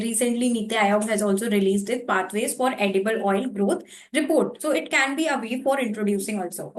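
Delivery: slow, deliberate exam-answer delivery; model answer line. Shown as a demonstration. Teacher shows students how to phrase an answer, slowly. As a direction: spell out a sample answer slowly. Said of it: "तो हम बता सकते हैं".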